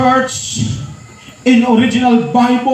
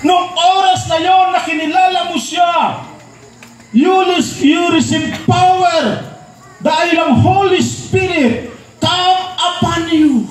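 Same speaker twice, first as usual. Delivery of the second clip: full-force preaching; 4 semitones higher than usual. Acted. Pastor exhorting the congregation, shouting with fire. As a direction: preach it out, building to receive power.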